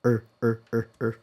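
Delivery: "er, er" held as an American R-colored vowel. Shown as a demonstration. Teacher drilling the American R-colored vowel. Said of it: "pronounced with an R colored vowel".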